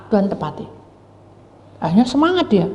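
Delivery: ordinary delivery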